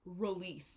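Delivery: release, weak ri-, stressed LEASE; stress on last syllable. Shown as a demonstration. Teacher models release with stress on LEASE. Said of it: "the stress is on the last syllable".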